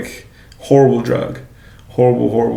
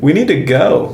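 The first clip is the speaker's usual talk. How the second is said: incredulous protest; 3 semitones higher than usual. Retold or imitated. Patient eager to leave the hospital, protesting incredulously. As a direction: pitch swooping up in protest. Protesting the long pharmacy wait.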